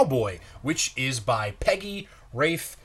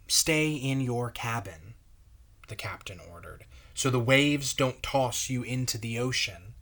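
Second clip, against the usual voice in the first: put-on reading a picture book aloud to kids; gentle storyteller pace for children; story narration. A narrator's reading. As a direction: read it like a pastor's children's story time. Pastor reads picture book aloud.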